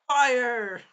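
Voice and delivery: high, loud, drawn-out order; shouted command. Retold or imitated. Shield hero unleashing his attack, shouted order. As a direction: yell it as a battle command.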